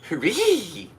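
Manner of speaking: high, loud hooray; better cheer. Shown as a demonstration. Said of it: "You really gotta get, like, the basses".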